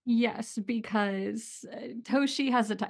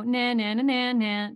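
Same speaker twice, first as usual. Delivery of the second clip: smug nah-nah. Shown as a demonstration. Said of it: "quick pause for me to go".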